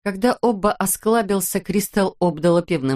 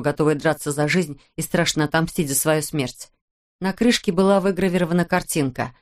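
plain reading voice

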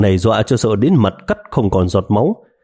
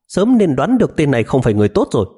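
through gritted teeth; 6 semitones higher, faster than usual. Acted. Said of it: "nghiến răng".

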